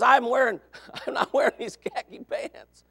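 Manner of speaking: son's refusal through laughter; a ten-year-old giggling his refusal; laughing son. Retold or imitated. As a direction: refuse while cracking up.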